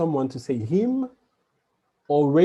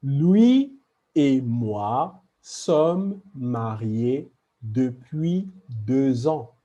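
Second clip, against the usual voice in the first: slow model sentence; slower than usual. Shown as a demonstration. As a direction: read the example slowly, stressing "lui". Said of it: "And last example".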